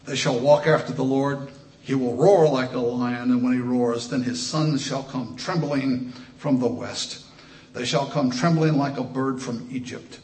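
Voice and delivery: booming pulpit reading of the prophecy; preached scripture. Acted. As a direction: proclaim it to the congregation. Reads prophecy at full force.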